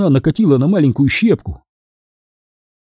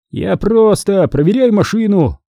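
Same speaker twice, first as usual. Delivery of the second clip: defensive; 7 semitones higher than usual. A narrator's reading. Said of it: "защищаясь".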